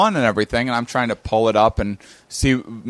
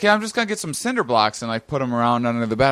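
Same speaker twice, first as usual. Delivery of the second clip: mock dopey friend; 2 semitones lower, faster than usual. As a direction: rattle off his silly plan breezily. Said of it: "he's like".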